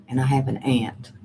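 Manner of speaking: aunt said like the insect ant; short 'a' in aunt, as in cat; her own aunt. Shown as a demonstration. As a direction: say aunt to rhyme with pant. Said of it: "I say aunt".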